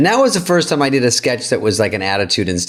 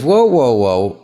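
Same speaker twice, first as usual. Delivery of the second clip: officious handler; 4 semitones higher than usual. Retold or imitated. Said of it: "she stops me and goes".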